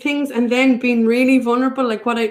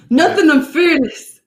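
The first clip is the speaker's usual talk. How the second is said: laughing; 2 semitones higher than usual. Real, not acted. Laughing deflection of question.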